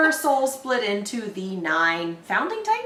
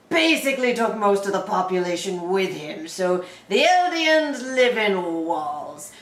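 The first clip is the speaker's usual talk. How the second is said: narrator voice. Acted. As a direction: boom out the history like an epic narrator. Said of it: "in that voice".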